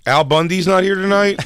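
loud mock ticket hawker; tout impression. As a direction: announce it like a shady tout. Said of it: "some of the people I've heard come in".

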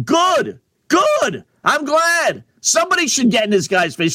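high-pitched, punchy approval; heated, high-pitched endorsement; emphatic approval. Real, not acted. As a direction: cheer it on, pitched well up. Host emphatically approves of the outburst.

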